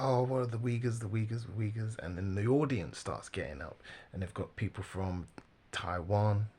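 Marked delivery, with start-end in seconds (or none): 0.0-2.0 repetitive, raised mimicry of objectors; mocking clamour. Commentator imitates critics pressing the guest, mocking clamour. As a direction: parrot the complaint insistently, tailing down.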